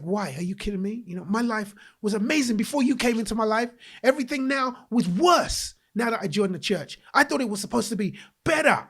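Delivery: acting out an indignant rant; retold cursing at God. Homeless young man railing at God in the van, retold indignant complaint. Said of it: "cursing myself, cursing God".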